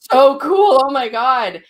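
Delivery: high, loud gushing over something amazing; breathless girlish delight; excited gushing. Retold or imitated. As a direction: squeal it like you just saw magic. Friends gushing over new experience.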